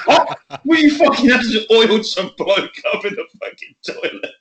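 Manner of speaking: high, incredulous mock girlfriend; shocked disbelief. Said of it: "She went".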